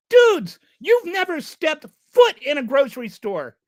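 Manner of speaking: sudden loud, high call-out; exasperated shout. Real, not acted. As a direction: bark it at them, fed up. Ranting at billionaires about groceries.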